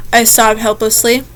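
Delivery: normal talking voice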